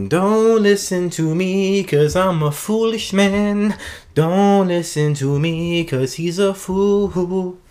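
slow, high, loud mock British voice; hammed-up British accent, drawn out and sung-ish. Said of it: "It's just so much easier for me to speak in an ancient like this".

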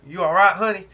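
a hint of a country redneck asking sweetly; redneck drawl. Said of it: "That's how he talks, you know, he, he real redneck".

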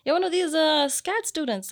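very high, loud drawn-out "oh"; old lady neighbor. Retold or imitated. Neighbor learns the student is from Kenya, imitated high exclamation. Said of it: "this old lady".

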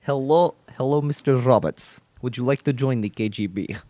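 put-on Russian recruiter; hammed-up Russian agent; bad Russian accent. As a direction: greet them in a mock Russian accent. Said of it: "continue doing bad accents".

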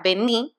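"Vení" with the stress on the final í. Retold or imitated. Reading an Argentine travel agency sign, "Vení" stressed on the final í. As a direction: land "Vení" on its last vowel. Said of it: "con acento en la I".

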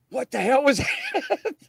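high, laughing what-the-hell; laughing disbelief. Retold or imitated. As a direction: blurt it out through a laugh. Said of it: "And we're like".

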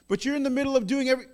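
put-on high, quick child's protest; urgent objection. Child to busy father, urgently objecting. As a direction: blurt out the objection fast.

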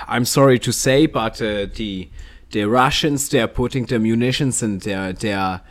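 a light mock German accent on the news. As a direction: read the news as a hammed-up German presenter. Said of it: "I will present this news in a German accent".

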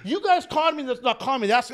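high, loud pleading in mock panic; acted panic. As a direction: plead and blame your buddy in a hammed-up panic. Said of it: "I'm just panicking".

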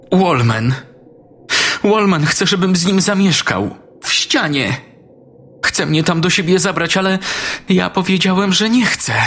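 put-on a frightened kid telling his mum everything; upset little boy. Daniel tells his mother what Wallman wants, high scared child voice.

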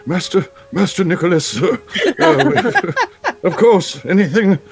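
butler voice. Pretend. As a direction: at your service, master. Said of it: "can you just do your butler voice".

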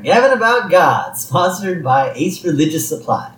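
radio advertisement. Retold or imitated. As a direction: read it like a radio sponsor plug. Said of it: "then we hear the advertisement".

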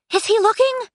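very high, loud little squeal of a voice; high-pitched nervous figure; self-conscious girl. Acted. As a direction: pipe it up high and anxious. Shy Aiko hiding, voiced very high.

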